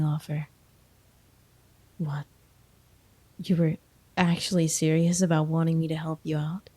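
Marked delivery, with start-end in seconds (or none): 2.0-6.7 amused whisper. Acted. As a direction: whisper it in disbelief. Student was serious about tutoring.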